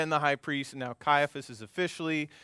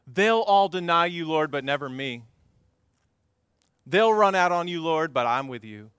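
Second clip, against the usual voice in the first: bold vow; 2 semitones higher, 6 dB louder than usual. Acted. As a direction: declare loyalty boldly, then ease down. Peter's boast to Jesus, acted.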